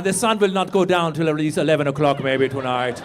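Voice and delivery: low mock accent, accidentally German; bad Swedish accent. Comic narrating Fred walking around, botched Swedish accent sounding German. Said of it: "that was like a German accent".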